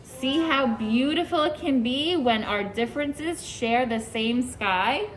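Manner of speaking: gentle, unhurried picture-book reading; reading to children. Acted. Teacher reading a picture book to her class, storybook voice. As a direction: read it like a storybook for little ones.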